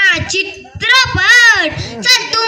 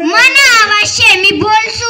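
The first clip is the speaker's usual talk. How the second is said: defiant shout; 3 dB louder, slower than usual. Acted. Aunt shouting back in the cinema.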